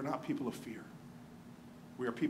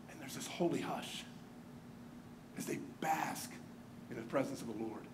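whispered and much softer, reverent; hushed whisper; 7 semitones lower, 14 dB quieter than usual. Acted. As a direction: whisper it like the hush in the temple. Describing holy hush.

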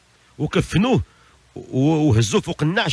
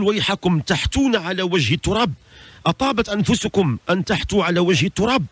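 high-pitched indignant appeal; acted reproach; 4 semitones higher than usual. Buried man to those throwing earth on him, reproaching. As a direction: reproach them in a raised, unshouted voice.

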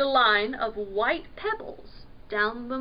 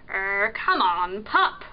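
lightly voiced pirate coaxing; 4 semitones lower, 4 dB louder than usual. A narrator's reading. Pirate luring the dogfish from his house, coaxing. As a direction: coax a shy pup out, lifting on pup. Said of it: "Pirate coaxed".

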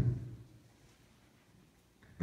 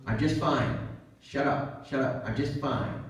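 tight, softer, higher denial; mock denial; 4 semitones higher, 4 dB quieter than usual. Preacher acting a person snapping that they're fine. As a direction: brush it off, clearly not fine. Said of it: "And then they'll say".

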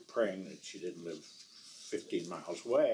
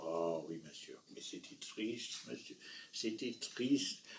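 put-on sad old lady; 2 semitones lower, 7 dB quieter than usual.

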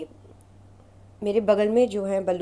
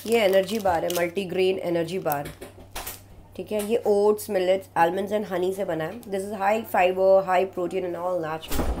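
ad read; 4 dB louder, slower than usual. Acted. Presents energy bar like ad.

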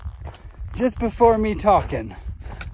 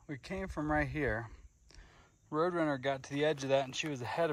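quiet; 2 semitones lower, 9 dB quieter than usual. Real, not acted. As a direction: speak softly, barely above a hush. Quiet retelling of slipping in water.

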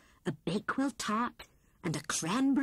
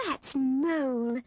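louder, slow glad recognition; happily; 4 semitones higher, 5 dB louder, slower than usual. A narrator's reading. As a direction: greet a friend with joy. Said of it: "said Grey Rabbit happily".

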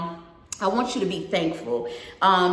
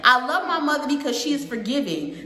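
put-on lilting read-aloud to a young audience; storybook narration with singsong rhythm; picture book read-aloud; 3 semitones higher than usual. A narrator's reading. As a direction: read it out brightly, line by line.

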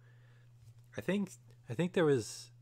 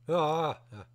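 scream into giggles; 6 semitones higher, 7 dB louder than usual. Real, not acted. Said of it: "scared me".

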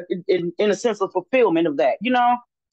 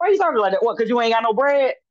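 mildly sarcastic imitation of a teacher; lightly mock the disciples' worry, quickly; hint of sarcasm; 2 semitones higher, faster than usual. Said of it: "his hints of sarcasm".

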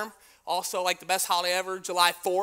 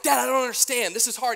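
put-on child pleading; 5 semitones higher, 4 dB louder than usual. Child voiced pleading with dad.

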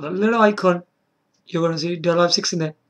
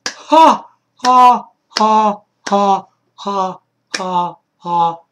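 sarcastic laugh; 3 semitones higher, 6 dB louder, much slower than usual. Acted. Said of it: "very funny".

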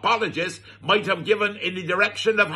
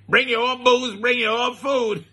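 higher, laughing through the words "Bring your own booze"; amused mocking repeat; 4 semitones higher than usual.

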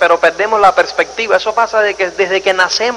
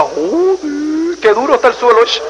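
put-on baby girl voice; 3 semitones higher than usual. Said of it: "esa niña diga".

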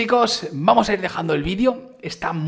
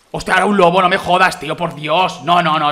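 exasperated outburst; 7 dB louder than usual. Real, not acted. A wolf attacks him in game.

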